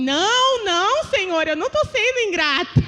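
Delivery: laughing mock defence; quick denial. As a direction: deny it at once, a little defensive. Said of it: "eu já falei de, de pronto".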